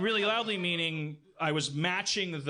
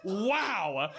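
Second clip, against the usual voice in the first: mock laugh; 6 semitones higher, much slower than usual. Laughing back at the bartender who insulted him, gloating. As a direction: cackle at him like a taunting underdog.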